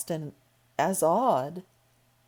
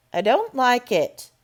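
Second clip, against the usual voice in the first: muttering to herself; 5 semitones higher, 5 dB louder than usual. Acted. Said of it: "she said to herself".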